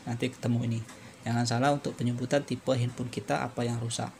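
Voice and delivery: ordinary talk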